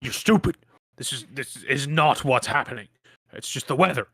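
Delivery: loud, heated farmer shouting at his neighbour; angry farmer yelling. Acted. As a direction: yell it out in a hushed quarrel gone loud. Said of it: "yell out".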